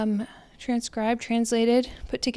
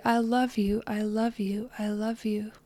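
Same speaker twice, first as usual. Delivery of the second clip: I love you repeated, softer each time until a whisper; soft fading mantra; 2 semitones lower, 7 dB quieter than usual. Shown as a demonstration. Repeating a loving mantra to herself, fading to a whisper. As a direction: let each one fade, the last breathed as a whisper. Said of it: "I say".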